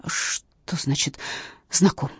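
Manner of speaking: slow, half-whispered confusion; bewildered drawl. Acted. Confused witness questioned by captain. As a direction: stretch it out, lost. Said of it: "растерянно протянула Катя".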